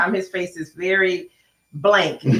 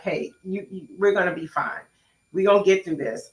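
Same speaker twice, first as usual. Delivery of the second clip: softer, reassuring "we're gonna be fine"; quiet reassurance; 3 dB quieter than usual. Retold or imitated. Wife quoting husband comforting her, soft and reassuring.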